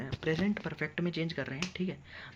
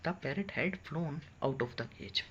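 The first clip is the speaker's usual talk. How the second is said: slow dictation; much slower than usual. Shown as a demonstration. Teacher reads sentence slowly.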